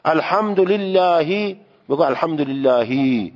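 الحمدلله slowly, ending in a clear "hi"; kasra shown. Shown as a demonstration. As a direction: say الحمدلله slow, final kasra sounded as i. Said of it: "نکشی یا نشه که اون کسره است".

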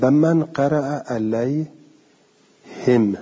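علیهم read alayhim, kasra on the ha and no vowel after the mim; slow, stressed من, closing علیهم on a bare m; علیهم as ʿalayhim, mim without a vowel; alayhim with silent mim. Shown as a demonstration. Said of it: "فکسر الهاء و اسکن المیم".

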